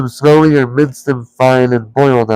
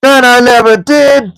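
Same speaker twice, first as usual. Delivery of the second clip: high, loud troll denial; troll William blaming Tom; indignant troll; 12 semitones higher, 5 dB louder than usual. A narrator's reading. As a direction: deny it, offended. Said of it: "said Tom".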